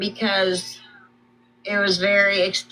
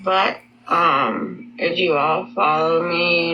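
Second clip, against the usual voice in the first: slow, lower, muffled by gauze; gauze in mouth; 4 semitones lower, slower than usual. Real, not acted. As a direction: struggle to talk past the gauze. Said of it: "I have gauze in my mouth".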